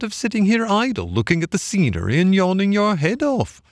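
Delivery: high, swooping barge woman's voice; chatty barge woman. A narrator's reading. Barge woman giving Toad the washing, high and chatty.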